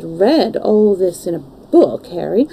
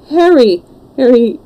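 higher, distressed cry; cried out; 5 semitones higher, 4 dB louder than usual. A narrator's reading. Lad hears how Sybil died, horrified cry. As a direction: cry out in horror. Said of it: "cried the lad".

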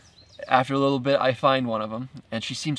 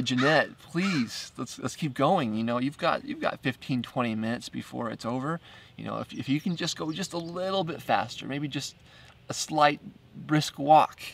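pleading; 2 semitones higher than usual. Retold or imitated. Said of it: "I start pleading with her".

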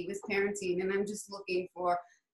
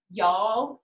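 Southern accent; 3 semitones lower, 6 dB louder than usual. Real, not acted. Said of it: "my Southern accent only comes out".

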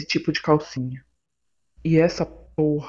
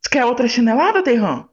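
angry threat; 7 semitones higher than usual. Acted. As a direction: bark it as a threat. Girlfriend threatens another slipper hit.

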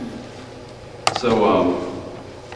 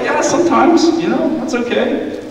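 mock sheepish kid; 12 semitones higher, 4 dB louder than usual. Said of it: "a couple of you are like".

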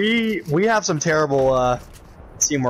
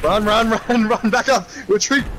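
panicked, higher, urgent retreat call; being chased; 5 semitones higher than usual. Real, not acted. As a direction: yell at the team to fall back. Fleeing enemies in a shooter.

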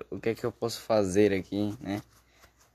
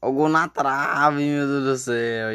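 higher, louder exclaim at the post; excited near-miss; 4 semitones higher, 4 dB louder than usual. Real, not acted. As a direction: shout as it hits the post. (empolgação com a bola na trave)

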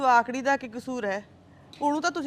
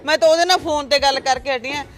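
heated defence; 3 dB louder than usual. Acted. Mother defends herself heatedly.

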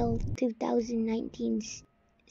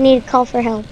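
calling for help; 3 semitones lower, 3 dB louder than usual. Real, not acted.

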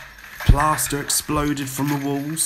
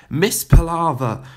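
loud, high call; 7 semitones higher, 8 dB louder than usual. A narrator's reading. Headmistress calling to the dust-covered teacher, loudly. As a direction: call across the rubble. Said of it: "called out the headmistress".

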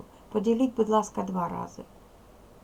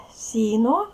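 loud demo; 4 semitones higher, 7 dB louder, slower than usual. Shown as a demonstration. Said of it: "Ось дивіться".

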